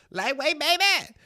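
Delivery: very high, slow, hammed-up bodybuilder yell; Ronnie Coleman impression. Imitating Ronnie Coleman under a heavy barbell, high slow yell. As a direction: drag it out like a showoff lifter. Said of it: "one of those dudes with a voice".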